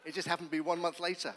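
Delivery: loud, laughing punchline; amused and laughing out loud; real amusement. Real, not acted. Laughs at his own punchline.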